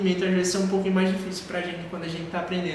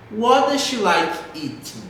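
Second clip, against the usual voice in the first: "does she" joined, slow, dropping on "eating"; slow it down, tune down on "eating"; linked, falling intonation; 3 semitones higher, 3 dB louder, slower than usual. Shown as a demonstration. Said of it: "a entonação lá pra baixo". ("does she" junto, devagar, "eating" pra baixo)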